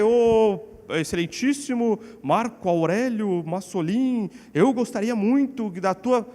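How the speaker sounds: slow, pompous address to a father; mock formal address. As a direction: exaggerate the stiff formality, dragging the words out. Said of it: "Eu não chamo meu pai". (tratamento formal exagerado, lento e pomposo)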